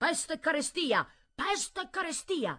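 very high, shrill, ceaseless, relentless shouting. An old man shouts at his family bent over their work, shouting nonstop. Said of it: "che urlava senza posa coi pugni levati al cielo".

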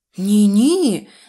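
very loud, startled, frightened, drawn-out cry. Told the patients can all be discharged, a character answers: frightened. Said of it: "злякалась Медуниця".

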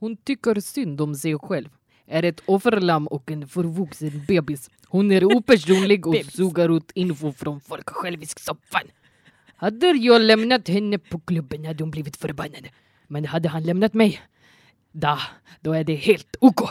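Swedish with put-on Russian accent. Asked by the host to read a short passage, in a russian accent. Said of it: "med rysk brytning".

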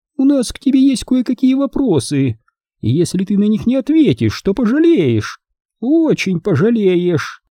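spiteful, high, nasty cooing. An aunt, gripping a boy's shoulder, speaks to him in a nasty cooing voice. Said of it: "вредным голосом проворковала она".

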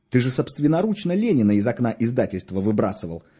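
ordinary delivery

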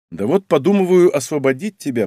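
plain

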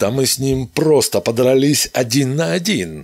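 loud, high, ringing shout, crying out. Facing armed men closing in on him, a man shouting. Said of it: "крикнул Дантон".

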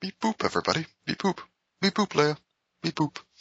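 high, quick droid beep-boops. Joking that a small man is inside the robot: Peter Dinklage as R2-D2. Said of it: "Peter Dinklage is R two D two".

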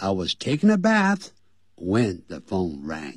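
short pause just before "when". Pointing out the phrasing of an English example sentence: short pause before when. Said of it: "注意到我在这个when 前面会停顿一点".

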